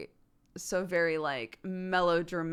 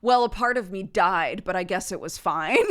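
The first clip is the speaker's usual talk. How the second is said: snooty critic; 8 dB louder than usual. Retold or imitated. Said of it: "there will be somebody who's like".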